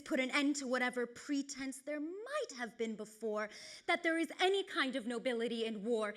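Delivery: dramatic tragic monologue, measured and grave; Hecuba. Acted. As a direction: accuse the victors with restrained force. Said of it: "Hecuba in Trojan War says".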